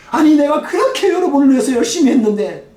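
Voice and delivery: lightly played wronged parent pleading; aggrieved parent. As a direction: pour out the unfairness of it to your kids. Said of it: "막 억울해하면서 하는 거".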